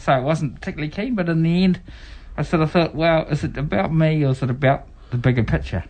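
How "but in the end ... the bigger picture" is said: muffled through a face mask; talking through a mask. Real, not acted. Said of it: "Sorry, I sound like I'm muffled".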